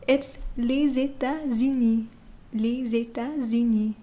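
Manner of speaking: les États-Unis, liaison z into États-Unis; French pronunciation. Shown as a demonstration. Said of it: "how do you say the United States in French".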